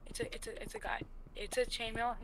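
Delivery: soft unvoiced whisper. Real, not acted. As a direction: whisper in tense alarm. Spots a mob nearby.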